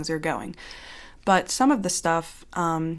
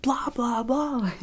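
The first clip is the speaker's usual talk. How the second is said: high droning blah blah; mock droning voice; 7 semitones higher, slower than usual. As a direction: drone it like a dull voice. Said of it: "waking up to me like".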